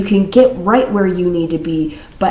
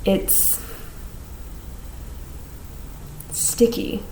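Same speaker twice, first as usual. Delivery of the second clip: whispering; 11 dB quieter, much slower than usual. Real, not acted. Intuitive message received, whispered.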